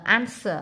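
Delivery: "answer" ending in a plain "ờ" sound; final R as schwa. Shown as a demonstration. Teacher shows students the R in "answer", read as "ờ". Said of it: "chữ R này đọc là ờ".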